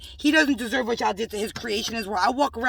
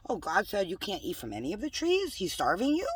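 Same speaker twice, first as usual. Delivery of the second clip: slick Satan; 4 dB quieter than usual. Retold or imitated. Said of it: "he slickly twi".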